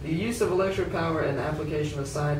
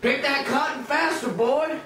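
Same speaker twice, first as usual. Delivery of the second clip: high, harsh order to work faster; slave master; 9 semitones higher than usual. Acted. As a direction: bark it down at him like the master. Slave master barking at worker.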